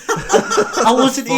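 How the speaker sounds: high breaking laughter; can't get the words out for laughing; laughing hard. Real, not acted. Helpless laughter mid-story.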